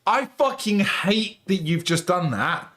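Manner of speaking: high, loud embarrassed protest; embarrassed outburst. Real, not acted. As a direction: protest loudly, mortified. Friend reveals he calls cops.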